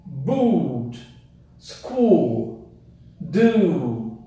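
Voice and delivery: Boot, School, Do with a long oo. Shown as a demonstration. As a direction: hold the oo. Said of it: "o som do U é mais longo".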